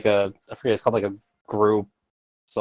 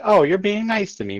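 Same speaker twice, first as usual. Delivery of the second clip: pet's happy voice; 11 semitones higher than usual. Retold or imitated. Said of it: "they're gonna be like".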